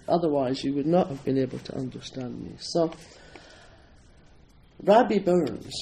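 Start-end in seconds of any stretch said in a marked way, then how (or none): 4.8-5.7 "Rabbi Burns" in broad Scottish, rolled r and open a. Shown as a demonstration. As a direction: say "Rabbi Burns" the Scots way, proudly. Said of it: "Robert Burns".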